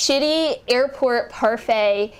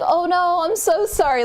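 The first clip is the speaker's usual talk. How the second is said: higher-pitched, imitated sweet apology; sweet retold sympathy; 6 semitones higher than usual. Helper hears the traveler's troubles, imitated sweet sympathy. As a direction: gush sympathy as the kindly helper. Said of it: "she was actually so sweet".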